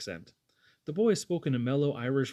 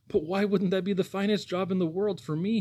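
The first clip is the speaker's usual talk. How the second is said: put-on higher, eager boy pleading for the job; 6 semitones higher than usual. A narrator's reading. Young man begs the boss to hire him, pleading. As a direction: beg the boss for the job, earnest and bright. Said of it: "he pleaded".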